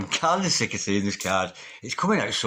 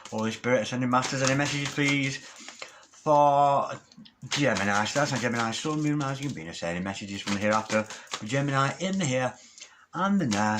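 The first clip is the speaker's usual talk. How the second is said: prayer. Acted. Tarot reader calling on spirits for Gemini, murmured prayer. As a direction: murmur the call for messages like a prayer. Invokes spirits over the cards.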